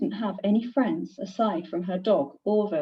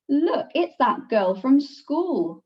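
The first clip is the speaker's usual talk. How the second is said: mocking twin; 4 semitones higher, slower than usual. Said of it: "one of them said".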